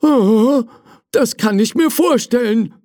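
high, lightly amused servant reply. Acted. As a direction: hold back a laugh. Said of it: "sagte der Diener".

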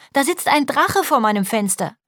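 put-on high-pitched scared little girl; acted childish fright; frightened child. A narrator's reading. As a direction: tell dad you're scared, high and childlike. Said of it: "Ich hab Angst".

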